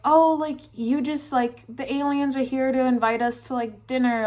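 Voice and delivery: bright hosts inviting her to dinner; cheery parents. Retold or imitated. Parents welcoming her to the alien dinner, cheerful and high. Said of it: "And my parents are like".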